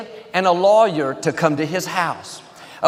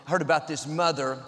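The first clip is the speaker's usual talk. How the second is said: softer, hushed joke telling; gentle pastor telling a joke, softer; quiet storytelling; 9 dB quieter than usual. A narrator's reading. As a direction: tell it softly, drawing them in.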